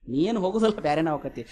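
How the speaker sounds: soft, sinking low at the end; hushed acted pronouncement. Storyteller echoes the sadhu's prediction to listeners, hushed. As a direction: let the prediction land quietly. Same prediction repeated softly for effect.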